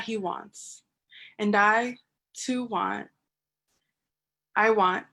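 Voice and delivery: spoken-word delivery, phrases set apart by pauses; deliberate, rhythmic poem reading; poetry recitation. Acted. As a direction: build the list line by line like a slam poet.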